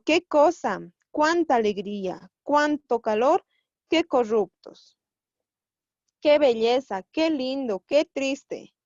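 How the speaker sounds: mildly hammed-up list of sample exclamations; exclamatory. Shown as a demonstration. Teacher giving examples of exclamative sentences, exclamatory. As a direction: exclaim each example with a lifted, emphatic start. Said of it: "oraciones exclamativas".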